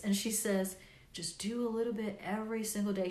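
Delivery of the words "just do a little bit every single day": put-on calm old lady. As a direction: gently pass on her calm advice. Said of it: "She says it so calm".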